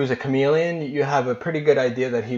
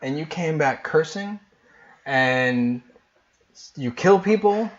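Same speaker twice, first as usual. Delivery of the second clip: rising higher and louder in indignation; mother scolding her returned daughter, climbing louder; upset mom; 5 semitones higher, 4 dB louder than usual. Acted. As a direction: build up to an accusing outburst.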